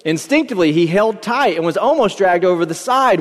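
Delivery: measured, expressive read-aloud storyteller; story narration. A narrator's reading. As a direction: read the parable out with lifted emphasis. Reads a parable aloud.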